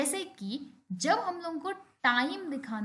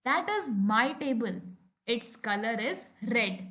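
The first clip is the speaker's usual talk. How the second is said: very slow, each word set apart; slow example sentence; much slower than usual. Shown as a demonstration. Teacher reading an example to the class, very slow. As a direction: read it out word by word.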